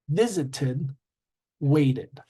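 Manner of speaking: "visited", "waited" as separate model words; ID-ending demo. Shown as a demonstration. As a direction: let "visited" and "waited" end in a full "id" syllable. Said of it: "there are three sounds".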